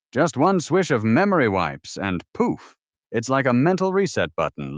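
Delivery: lightly hammed retro TV pitchman; fifties commercial announcer. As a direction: sell it like an old TV ad. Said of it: "pretend that you're, uh, some, uh, fifties, the voice of some, uh, commercial from the fifties".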